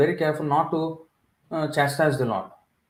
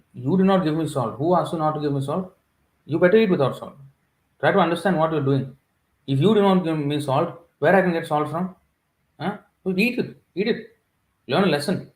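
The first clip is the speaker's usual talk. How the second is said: a hint of a stern scolding, somewhat higher; mock scolding; 3 semitones higher than usual. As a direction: playfully scold the deity for the missing salt. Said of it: "He was talking like this".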